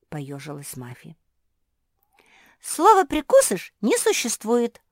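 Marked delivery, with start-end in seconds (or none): 2.6-4.8 high, loud correcting objection; quick objection. A narrator's reading. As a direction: cut in to correct her. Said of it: "тут же возразила Жози".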